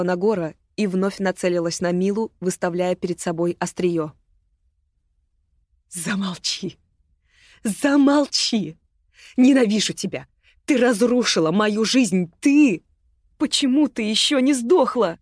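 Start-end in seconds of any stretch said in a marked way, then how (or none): 5.9-15.2 loud, high hateful screaming. Acted. Агата screams at Мила with hatred, loud and high. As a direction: scream your hatred at her. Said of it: "кричала Агата".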